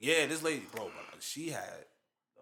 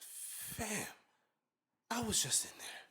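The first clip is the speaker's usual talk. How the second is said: exasperated; 11 semitones higher, slower than usual. Retold or imitated. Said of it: "I turn back, I'm like".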